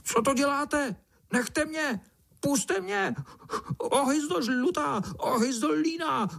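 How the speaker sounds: very high, wailing little ant cries out; tiny ant wailing in panic; frantic ant. A narrator's reading. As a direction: shriek for help from inside a belly. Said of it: "volal mravenec celý pryč z toho".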